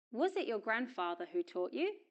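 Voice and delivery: "Was" unstressed, reduced to a schwa; weak form of was. Shown as a demonstration. Teacher repeats the question for learners, weak "Was". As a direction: pass lightly over "Was" into the question. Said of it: "auxiliary verb is pronounced in weak form".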